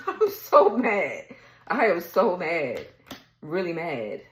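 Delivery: drawn-out, emphatic venting; really upset. Real, not acted. Reader venting over somebody who's a loser, really upset. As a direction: stretch each word out in real exasperation. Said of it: "I'm really upset".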